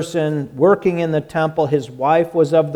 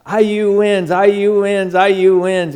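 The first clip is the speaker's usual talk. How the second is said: raised, louder triumphant chant of the score; excited text; 5 semitones higher, 4 dB louder than usual. Retold or imitated. Friend texting the pastor the game result, excited cheer. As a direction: cheer the win like a fan reading his own text. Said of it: "And he gets to".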